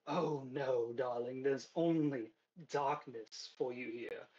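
lightly voiced posh villainess; a measured, mock-sweet high-class threat. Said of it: "high-class, uh, voice".

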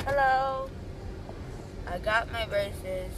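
muffled through covering hand; speaking behind hand. Real, not acted. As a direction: mouth covered by palm. Seen 0: Hand cups mouth in every frame; absent at -1.0 and 8.1.

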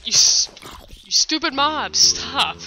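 irritated whispered scold; annoyed hiss. Real, not acted. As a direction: scold the mob through a whisper. Scolding attacking mob.

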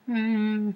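high, drawn-out "hmm"; reacting with a squeezed high hum; high-pitched hum. Telling of the guy's covered face, high-pitched hum. Acts out character's facial reaction.

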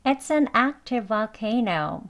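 "It's an active volcano" slow but linked; conversational pronunciation, slowed. Shown as a demonstration. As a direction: join "active volcano" on one v, weak "vuh". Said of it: "대화 발음으로만 해보겠습니다".

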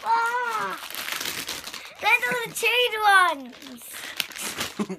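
high, loud yelp of disgust; disgusted shriek. Real, not acted. Finds chewed marshmallows on face.

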